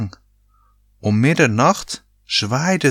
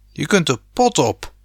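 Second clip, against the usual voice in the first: mild mock yell, pitched up; indignant, higher-pitched outburst; heated yell; 5 semitones higher than usual. A narrator's reading. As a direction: snap back with some heat. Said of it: "schreeuwde Rob verhit".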